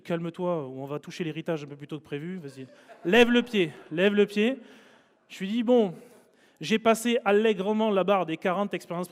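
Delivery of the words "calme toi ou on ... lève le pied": louder, laughing mock warning; half-laughing sister urging him to back off. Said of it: "ma sœur qui me donnait des coups de coude, elle me dit". (sœur qui avertit en riant, plus fort)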